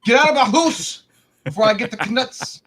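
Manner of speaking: high, loud mock wife yelling; angry wife. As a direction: shriek like a furious wife. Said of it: "Your wolf will not put up with it".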